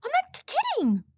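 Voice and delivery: high, panicked stammer. A narrator's reading. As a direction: trip over the word in fear. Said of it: "Swab stammered".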